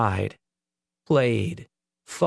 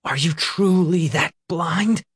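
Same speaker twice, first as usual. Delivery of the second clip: angry accusation; 7 semitones higher than usual. A narrator's reading. Nick berates Peter.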